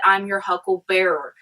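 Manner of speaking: "hucklebearer" ending in bearer, not berry; "hucklebearer", last part like pallbearer; alternative word ending. Shown as a demonstration. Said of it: "it may have been that he said".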